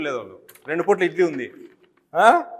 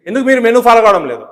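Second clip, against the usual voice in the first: louder, stress on మీరు, falling hard at the end; demanding rebuke; 3 semitones higher, 6 dB louder than usual. Real, not acted. Official demanding the warden explain the menu, louder rebuke. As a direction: press him for an answer.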